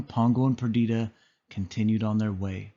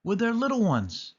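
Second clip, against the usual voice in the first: crying out happily; 9 semitones higher than usual. A narrator's reading. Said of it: "cried Nanny".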